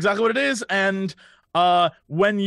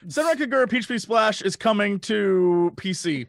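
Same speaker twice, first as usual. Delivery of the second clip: higher, eager self-introduction in a mimicked voice; Jesse Cox; 3 semitones higher than usual. Friend jokingly mimics a colleague pitching Senran Kagura, playful impression. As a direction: impersonate a friend's upbeat pitch, starting high. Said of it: "how was my Jesse impression?".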